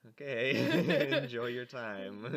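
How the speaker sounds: bright, polite, laughing host voice; sweet fake politeness for guests; customer service voice. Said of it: "my good customer service voice".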